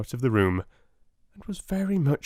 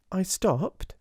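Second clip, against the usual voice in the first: Sarah's voice; 9 semitones higher than usual. A narrator's reading.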